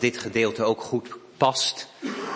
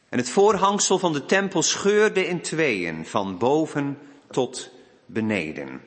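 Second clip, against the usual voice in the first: raised, deliberate Bible reading; scripture reading; 4 semitones higher than usual. Real, not acted. Minister reading the crucifixion to the congregation, solemn scripture reading. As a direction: read the Gospel out to a congregation.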